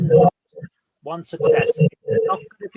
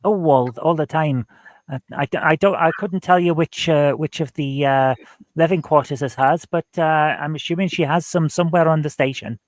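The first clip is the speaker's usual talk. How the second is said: put-on Welsh accent. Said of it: "just gonna keep going with it".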